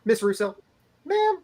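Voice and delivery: high put-on court reporter voice. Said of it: "B Tim is doing the court reporter's voice".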